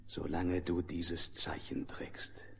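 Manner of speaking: slow hushed whisper. Acted. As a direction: breathe it out slowly as a secret. Lion's solemn warning whispered.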